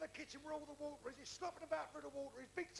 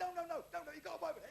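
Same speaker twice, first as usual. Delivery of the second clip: insistent correction; 3 semitones higher, faster than usual. Acted. Insists friend survived, cutting in.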